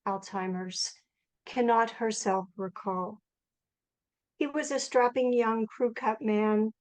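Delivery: measured poetry-reading voice, pausing between phrases; poem reading. Acted. Poet reading a new poem to the Frost Place audience, measured recital. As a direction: read it as verse, phrase by phrase. Reads own poem aloud.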